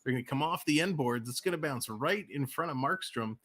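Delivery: quick, lively live game call; rink-side commentator rolling through the play; hockey play-by-play. Acted. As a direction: call the action as it happens.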